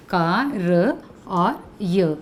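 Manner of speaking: slow, spelled-out letters का, र, य one by one; letters said separately, very slowly; sounding out letters. Shown as a demonstration. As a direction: stretch each letter apart: का… र… य. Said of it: "अब आप बताइए".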